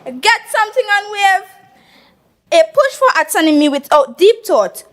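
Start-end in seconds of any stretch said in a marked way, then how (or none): 0.1-1.5 lightly imitated calypso singer, pitched higher; Super Blue. Debater quoting a singer to the house, light imitation. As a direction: raise your pitch for a hint of a soca star. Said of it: "In my best super blue voice".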